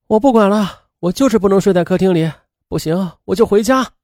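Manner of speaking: a touch of anger, pitched a little up; mildly angry ultimatum, understated. A narrator's reading. Nanny to employer, threatening to quit, mildly angry. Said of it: "她很生气地对谢娟说".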